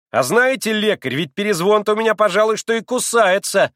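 put-on high trembling boy's voice, pale with anger; a boy's defiant challenge, voice shaking; дрожащий голосок. A narrator's reading. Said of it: "проговорил Коля задрожавшим голоском". (дрожащим голоском, с вызовом)

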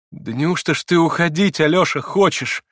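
high, loud pained disbelief; distressed, incredulous question; grieved astonishment. A narrator's reading. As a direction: exclaim in sorrowful amazement. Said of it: "воскликнула она в горестном изумлении".

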